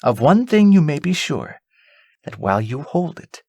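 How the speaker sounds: lightly voiced, kindly old lady giving counsel; a grandmother reassuring a child; wise old lady. Old lady instructs Irene.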